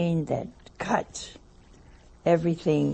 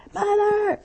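high, loud mock call of Mother; sudden high shout for Mother; 4 dB louder than usual. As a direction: call across the shop to her. Someone calls her from afar.

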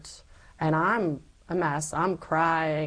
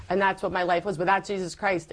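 ordinary talk

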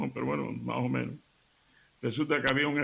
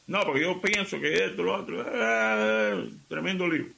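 blurting fool; 4 semitones higher than usual. Acted. Voicing the fool who blurts.

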